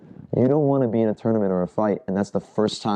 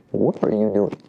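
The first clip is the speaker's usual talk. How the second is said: calm, level question, no heat. Shown as a demonstration. Coach demonstrating a calm answer to a hard hit in sparring, very calm. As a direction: disarm him by staying calm. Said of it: "Just very calmly".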